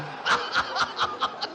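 breathless high-pitched giggle; a squealing unvoiced laugh. Real, not acted. Laughs at tenor suggestion.

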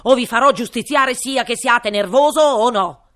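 loud furious royal threat; angry king. Acted. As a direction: roar the threat in anger. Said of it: "disse il re irato". (re irato)

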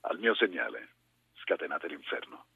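commanding film-dubbing voice; famous movie line. Shown as a demonstration. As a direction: deliver it like the dubbed battle order. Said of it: "vorrebbe sentire con la voce vera". (voce da doppiaggio solenne e autoritaria)

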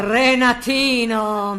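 calling out. Acted. Mother calling her son off the wardrobe.

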